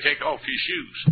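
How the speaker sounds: high-pitched call from on high; God calling out. Retold or imitated. God calls to Moses from the bush, calling out high.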